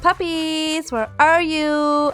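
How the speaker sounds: high, very slow sing-song calling to puppies; calling lost puppies in a high, slow, luring voice; coaxing call. Pretend. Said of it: "calling them".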